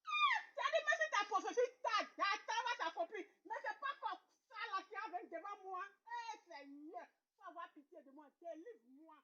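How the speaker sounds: quiet lament, fading to a murmured prayer. Acted. Woman alone laments her poverty and prays to the Lord, fading.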